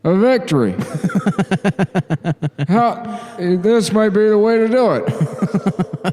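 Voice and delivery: high voice drowned in echo; vintage echo chamber. Acted. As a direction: speak into a big hall reverb. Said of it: "I think it's too much echo".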